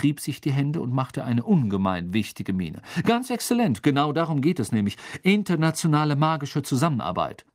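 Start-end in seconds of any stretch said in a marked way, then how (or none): 3.0-7.5 louder, emphatic approval; self-important official. Acted. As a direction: pronounce it as a grand policy.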